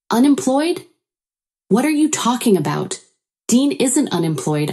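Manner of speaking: high, incredulous questions settling into denial; astonished and protesting; taken aback. A narrator's reading. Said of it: "completely taken aback".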